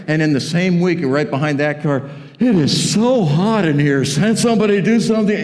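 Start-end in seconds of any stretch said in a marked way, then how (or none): 2.4-5.4 high, exasperated mock gripe; put-on fussy complaint, pitched up; petty complaining. Churchgoer griping anonymously about the heat, mock complaining. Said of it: "complain about something they didn't like in church".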